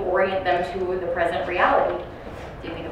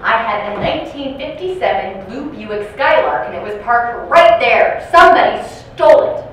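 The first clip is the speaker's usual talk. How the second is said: insistent complaint; 2 semitones higher, 7 dB louder than usual. Retold or imitated. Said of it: "and she goes".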